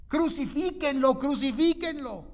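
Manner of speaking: high and loud chant of the mob; loud high mock mob chant; crowd's cry.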